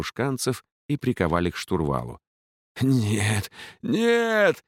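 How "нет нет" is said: high rising panicked yell; unrestrained scream. A narrator's reading. The old captain chained to the wheel, screaming in panic. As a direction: scream no without holding back. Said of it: "безудержно заорал старик".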